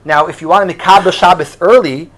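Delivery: usual speaking voice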